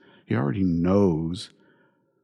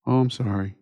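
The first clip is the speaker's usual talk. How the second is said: 1 mock apology; 5 semitones higher than usual. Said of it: "that's exactly how they say it".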